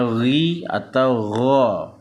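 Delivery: slow guttural gh in "ri" and "gha"; Arabic ghain demonstrated on "ri atau gha"; throaty ghain. Shown as a demonstration. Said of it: "di tenggorokan".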